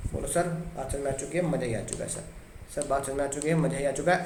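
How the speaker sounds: soft, low, quick gushing student voice; mock student delight. Teacher voicing pupils softly gushing.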